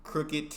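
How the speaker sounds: "crooked" with crisp final T; "crooked" said as "crooket". Shown as a demonstration. Viewer practising the lesson, "crooked" ending in T. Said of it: "that's something I can do".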